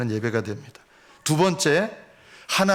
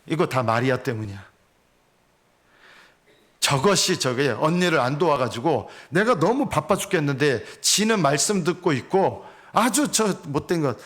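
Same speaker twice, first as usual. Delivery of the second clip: Martha's inner grumble. Retold or imitated. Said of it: "마르다는 이렇게 생각한 거예요".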